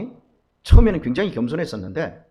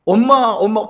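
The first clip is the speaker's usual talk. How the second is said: put-on higher, louder childlike call; child calling mom; 5 semitones higher, 6 dB louder, slower than usual. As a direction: call out like a clingy little child. (아이처럼 높게 엄마를 부르는 목소리)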